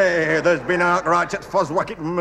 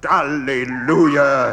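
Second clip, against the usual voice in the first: slow, drawn-out hallelujah; stretched-out exultation; mock triumphant cry; 3 dB louder, slower than usual. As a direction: cry out in hammed-up rapture. Acting an ancestor's triumphant cry.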